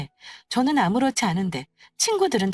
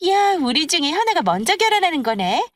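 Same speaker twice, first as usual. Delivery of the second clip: loud, eager pestering turning congratulatory; high, animated girlfriend gushing; excited friend; 5 semitones higher, 4 dB louder than usual. Acted. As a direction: press for details, then cheer her on. Excited friends press her and congratulate.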